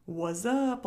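What's up run together as wuz-up; slangy wazzup. Shown as a demonstration. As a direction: say What's up with a z replacing ts. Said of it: "like, W A Z Z".

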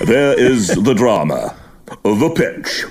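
slow, theatrical English commentator; portentous drawn-out delivery; Frank Tyson impression. Mimicking Tyson's dramatic commentary, theatrical. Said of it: "guy out of Midsummer Murders".

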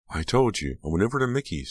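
mildly uneasy, rising defensive answer. A narrator's reading. Girl avoids his eyes answering, uneasy. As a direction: answer with a touch of evasion. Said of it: "she said uneasily".

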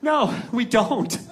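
slow, out-of-breath confession; mock-humble, drawn-out answer; humble admission. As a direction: admit it sheepishly and honestly. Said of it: "as humbly and honestly as I could".

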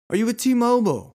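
high sales-pitch question; perky salesperson. Retold or imitated. Kiosk seller trying to catch shoppers off guard, high and perky. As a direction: chirp the question brightly. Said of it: "Now they say".

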